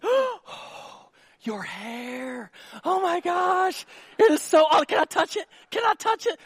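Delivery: high, hammed-up girly gushing; gushing woman. Man imitating women admiring hair, high mock gush. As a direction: coo in mock amazement over someone's hair. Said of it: "Women compare".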